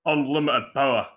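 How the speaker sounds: Yorkshire attempt that comes out Scottish; lightly put-on accent, rolled R on power; mock Scottish villain line; Scottish-sounding accent. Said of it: "that sounds more Scottish than anything".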